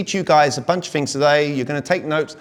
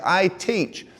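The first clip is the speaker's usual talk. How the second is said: slow, deliberate emphasis on "teach"; stress on TEACH; 3 semitones higher, 4 dB quieter than usual. Shown as a demonstration. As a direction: spell out the point by leaning on "teach". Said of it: "I even stress on the words".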